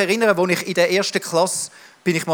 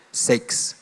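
a coy whisper; 5 dB quieter than usual. Real, not acted. Preacher naming the touchy topic to the church, whispered. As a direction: whisper the word like a secret. Said coyly.

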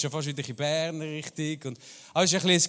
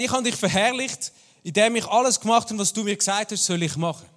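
higher and louder, driving the point home; raised, urgent retelling of the quote; emphatic paraphrase; 4 semitones higher, 5 dB louder than usual. Retold or imitated. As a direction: preach it out with force. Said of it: "Also Jesus sagt".

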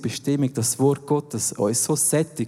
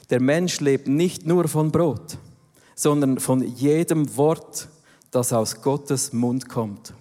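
solemn scripture reading; slower than usual. Acted. Quotes scripture slowly over music.

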